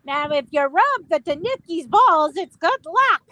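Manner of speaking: a hint of a solemn monk; Buddhist monk voice. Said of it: "Transforms into a Buddhist monk and says".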